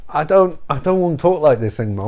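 quick, low Dracula voice; Dracula's old accent. Acted. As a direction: complain in a lightly put-on Dracula accent. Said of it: "and Dracula's like".

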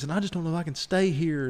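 high, put-upon lady's lament; dramatic old lady. Retold or imitated. Old lady threatens to leave the hotel, high and whiny. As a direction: whine like she's too upset to stay. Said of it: "She's like".

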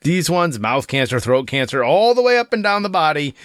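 mock teacher. Mock health class lecture.

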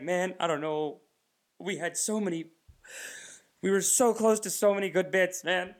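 mock war veteran recounting losses; traumatized veteran. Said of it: "like someone with P T S D".

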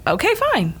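put-on fed-up girlfriend caves, then snaps yes; exasperated giving in. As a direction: throw up your hands and give in. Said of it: "I'm like".

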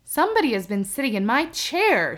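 lightly voiced gruff bear; mild gruff papa bear complaining; great gruff voice. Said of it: "in his great gruff, rough voice".

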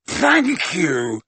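lightly voiced shifty crook, slow; a hint of a shady, wheedling thief; Mundungus voice. A narrator's reading.

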